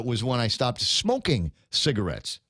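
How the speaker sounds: smoking leaned on a little harder; mild emphasis on smoking; stress on smoking. Real, not acted. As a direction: put weight on the word smoking. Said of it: "I put the emphasis on the word smoking".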